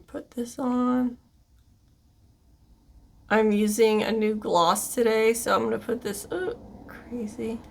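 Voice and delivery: talking while lining lips; while doing lip liner. Real, not acted. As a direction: lips stretched as you line them. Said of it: "Trying to talk and do lip liner all at once".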